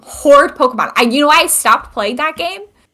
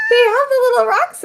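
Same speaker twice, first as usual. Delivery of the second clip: laughing; 11 semitones higher than usual. Real, not acted. Laughing through words.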